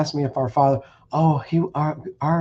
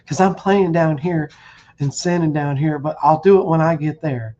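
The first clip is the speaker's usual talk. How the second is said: higher, louder mocking voice of a lazy believer; mock careless sinner; 4 semitones higher, 3 dB louder than usual. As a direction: parody the sinner putting it off till later. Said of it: "what makes you think you're gonna go over there and do it".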